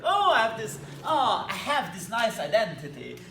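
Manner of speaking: put-on a playful Italian accent for Euler, with a laugh; mock Italian accent. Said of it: "I don't know why Euler sounds, uh, Italian".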